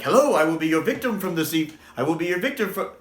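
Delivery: halting, tripping over the words; botched first try; stumbling slow take. Shown as a demonstration. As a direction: fumble the line at normal speed. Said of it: "I can't do this really quick".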